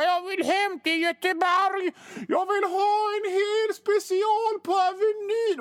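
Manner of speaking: high, whiny sobbing cry to go home; crying wail. Retold or imitated. Kaspar Janebring wails he wants home to Gothenburg, high crying. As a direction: wail it like a homesick crybaby. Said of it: "han gråter och ropar".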